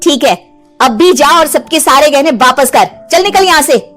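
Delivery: mildly angry, rising order; stern command. Acted. Heroine sending witch to return jewellery, stern. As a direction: order her out firmly.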